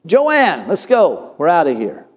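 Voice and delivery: high, loud call to his wife, easing toward the end; imitated anger. Offended man calls wife to leave, imitated angry shout. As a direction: act out a man storming off. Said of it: "Instead, he got mad".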